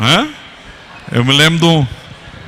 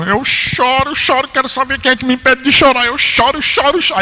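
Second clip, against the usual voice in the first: mock wailing sister; 8 semitones higher than usual. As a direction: wail it out like a stubborn old sister. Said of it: "Agarrado assim". (irmã chorosa e teimosa, voz aguda e arrastada)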